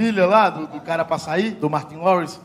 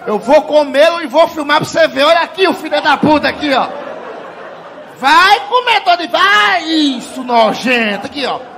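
loud, high, cackling mock taunt; mock taunting shout; 8 semitones higher, 10 dB louder than usual. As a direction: yell the taunt up high, laughing as you go. Mocking dad with filmed taunt.

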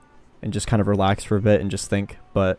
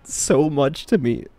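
tearful voice; 4 semitones higher, slower than usual. Real, not acted. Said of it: "fucking crying over it".

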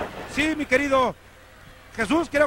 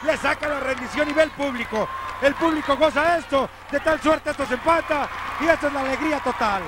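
lively excited commentary; wrestling commentator; 4 semitones higher than usual. Real, not acted. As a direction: keep the crowd's joy in your voice. (comentarista de lucha emocionado)

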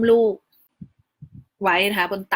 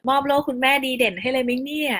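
imitated teasing, pitched higher; playful teasing; 4 semitones higher than usual. Nurse joking that mom deserves an award, higher teasing tone. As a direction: tease like an impressed older nurse, lightly voiced. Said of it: "แซวบอกว่า".

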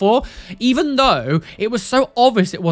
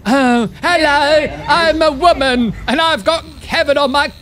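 mock woman voice; 8 semitones higher, 4 dB louder than usual. Mimicking the woman with Kevin on her forehead, silly high voice.

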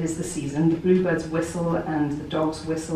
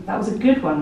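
lightly voiced companion, offhand; casual remark; 3 semitones higher, faster than usual. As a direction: say it like a casual compliment. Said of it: "my companion might say".

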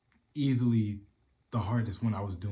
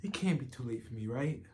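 halting, earnest plea broken by long pauses; BoJack Horseman; 3 semitones higher than usual. Acted. Asking Diane if it's too late for him, halting and pleading. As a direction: vulnerable confession, searching for reassurance.

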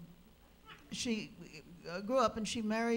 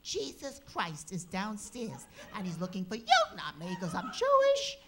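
wife bursting in with alarming news; breathless alarm to husband; 2 semitones higher, 6 dB louder than usual. Retold or imitated. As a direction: rush in alarmed to her husband. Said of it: "goes to see her husband".

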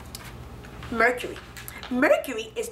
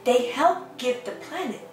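gentle storybook reading voice; lightly sing-song picture book reading; reading to children. Acted. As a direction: read the rhyme to little ones. Reads picture book aloud.

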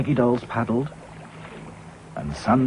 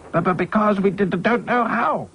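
high stammer over the words; stuttering; 10 semitones higher than usual. A narrator's reading. Hi-Fi stammers that nobody knows how. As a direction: trip on the d. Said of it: "said Hi-Fi".

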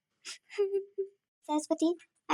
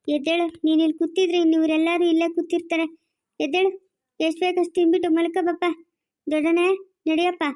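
louder, insistent orders; firm urging; 6 dB louder than usual. Acted. Elder telling Shivappa to get up and eat, loud urging. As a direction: rouse them with a raised voice.

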